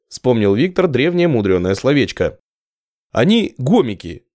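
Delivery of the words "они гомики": weary sigh. Acted. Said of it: "устало вздохнул Виктор".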